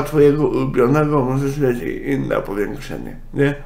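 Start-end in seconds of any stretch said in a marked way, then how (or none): none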